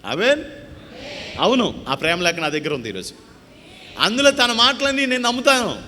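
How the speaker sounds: high, loud, proclaiming preacher's cry; full-force preaching. Acted. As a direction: lift it to the whole church, ringing out. (గట్టిగా, ఎత్తైన స్వరంతో ప్రసంగం)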